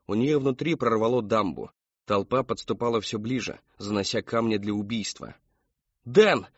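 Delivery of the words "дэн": loud, high call for help; crying out. A narrator's reading. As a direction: shout your husband's name urgently. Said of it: "вскричала её мать".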